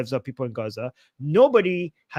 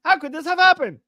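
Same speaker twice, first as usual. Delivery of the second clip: hammed-up fake shock, higher and a bit louder; mock surprise; 8 semitones higher, 4 dB louder, faster than usual. Streamer doing a Pikachu face, hammed-up mock surprise. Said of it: "Pikachu face. I'm so surprised".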